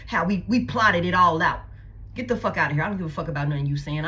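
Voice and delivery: imitating a cold dismissal, pitched low; dismissive scorn. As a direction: spit it out low and contemptuous. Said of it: "making it seem like you".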